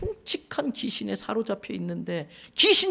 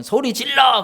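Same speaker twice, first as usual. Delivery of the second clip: loud, higher hype-man call; concert shout; 5 semitones higher, 7 dB louder than usual. Retold or imitated. Imitating a concert host firing up the kids. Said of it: "아이들 공연 가면".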